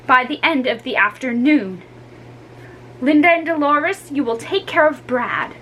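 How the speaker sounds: lightly voiced firm mother; stern mother. Mother punishes the children, lightly voiced stern. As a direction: lay down the punishments firmly.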